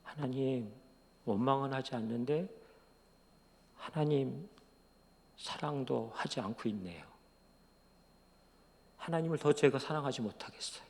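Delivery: soft, halting admission; subdued inner prayer, lightly re-enacted; inward confession. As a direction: confess it quietly, with long pauses. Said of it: "제 마음속에 이렇게 생각되어졌어요".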